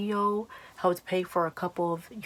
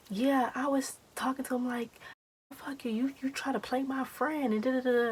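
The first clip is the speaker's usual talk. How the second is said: higher-pitched mimicry of a friend; imitated indignant friend; 8 semitones higher than usual. Friend reporting how she told him off, imitated high and indignant. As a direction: retell the confrontation in a friend's high voice.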